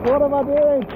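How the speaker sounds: high, loud and fed up; exasperated outburst. Real, not acted. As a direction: throw it out in disbelief. Soaked in heavy rain.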